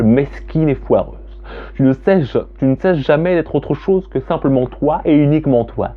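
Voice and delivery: slow, deliberate reading of a dark poem. Acted. Reading her self-loathing poem to viewers, slow and solemn. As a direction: let each bitter line land slowly.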